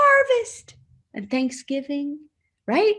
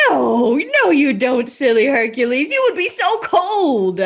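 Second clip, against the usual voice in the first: playful scolding; 5 dB louder than usual. Pretend. Teasing answer to own question.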